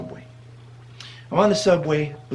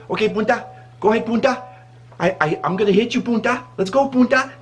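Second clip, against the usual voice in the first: higher-pitched mock fighting talk; feisty Spanish lady; 5 semitones higher than usual. Spanish lady threatening to hit, high mock challenge.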